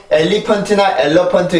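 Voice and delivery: "엘리펀트" and "엘러펀트" with every Korean syllable sounded; wrong pronunciation. Shown as a demonstration. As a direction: say "엘러펀트" evenly, Korean-style. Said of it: "이런 게 아니고".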